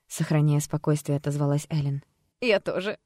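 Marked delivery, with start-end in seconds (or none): 2.4-3.1 hissed. Acted. Alter ego hissing at the doctor, sly. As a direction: sly hiss then a shrill laugh. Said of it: "вдруг прошипела не Джессика".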